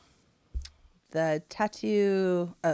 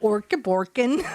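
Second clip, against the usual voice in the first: mock Swedish; 3 dB louder, slower than usual. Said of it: "That sounded Swedish".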